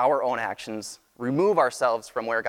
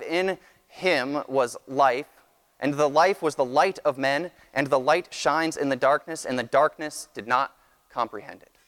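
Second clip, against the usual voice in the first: scripture reading. Acted. Reads Gospel verse aloud.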